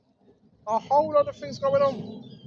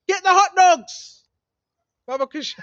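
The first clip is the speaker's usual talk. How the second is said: mock elite insider; 3 semitones higher, 6 dB louder than usual. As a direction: savor every word like a sinister order. Mocking the elite's code talk.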